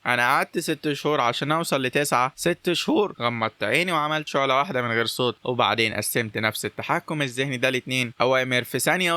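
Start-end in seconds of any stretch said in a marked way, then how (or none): 2.4-3.1 incredulous. Acted. Incredulous repeat of six months.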